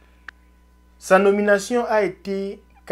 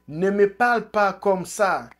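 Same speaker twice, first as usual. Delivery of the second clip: mock yell; 4 semitones higher, 5 dB louder than usual. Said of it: "Eto'o crie".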